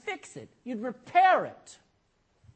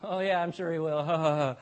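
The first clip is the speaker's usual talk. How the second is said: lower, dismissive chuckling retort; amused, disbelieving burglar; scoffing thief; 4 semitones lower than usual. Acted. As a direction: laugh off the bird's warning.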